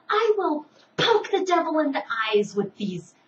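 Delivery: put-on high, loud taunting kid voice; defiant little boy. Little brother dancing on the table, defying his mother in a high taunting kid voice. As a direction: play the cheeky hyperactive boy daring the devil.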